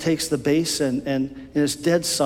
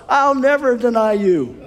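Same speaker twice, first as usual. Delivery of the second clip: Peter's proud vow; 9 semitones higher, 4 dB louder than usual. Acted. Peter protesting voiced.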